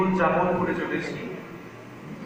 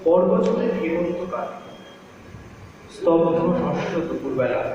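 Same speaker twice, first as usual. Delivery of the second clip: measured, expressive verse reading; poem recitation. Acted. Child narrator recalls grandmother's scolding, measured recitation. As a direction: recite it as a remembered childhood afternoon.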